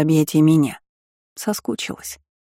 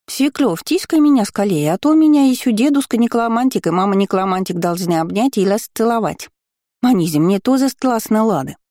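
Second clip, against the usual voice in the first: eager little creature; 4 semitones higher than usual. Acted. Gargoyle begging for cuddles.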